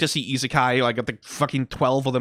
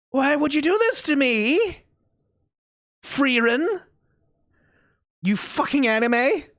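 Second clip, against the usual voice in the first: put-on angry voice; 11 semitones higher than usual. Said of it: "I'm putting on a sort of angry voice".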